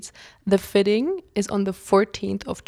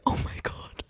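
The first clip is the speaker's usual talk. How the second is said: breathless oh my god; 7 dB quieter than usual. Retold or imitated. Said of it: "But I was like".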